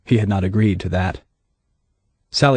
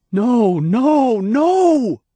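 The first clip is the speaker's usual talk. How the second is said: higher, pleading no; frantic denial; much slower than usual. A narrator's reading. Deputy denying Hannah's accusation, frantic and higher. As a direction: deny it desperately.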